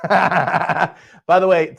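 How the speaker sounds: drawn out through a laugh. Real, not acted. Host laughs at a viewer's comment, slow laughing aside. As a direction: chuckle while slowly saying it.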